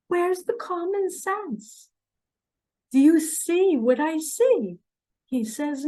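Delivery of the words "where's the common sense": plain. Real, not acted. Repeats question after whisper.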